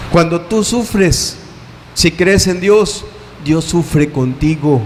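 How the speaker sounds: slow, gentle reassurance; consoling. Acted. Preacher comforting those who suffer, slow and gentle. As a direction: comfort the listener, slowly.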